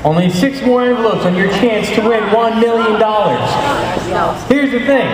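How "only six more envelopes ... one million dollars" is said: hypnotized dreamy voice. Acted. Hypnotist giving slow suggestions.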